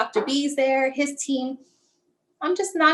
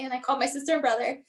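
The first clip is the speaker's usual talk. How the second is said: tearful; 6 dB quieter, faster than usual. Real, not acted. Mother tearing up retelling diagnosis.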